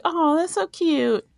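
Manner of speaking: high, slow gushing coo. Retold or imitated. Gushing to friends about a cute couple, slow high coo. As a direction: coo it out like a smitten fan. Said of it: "I'm like".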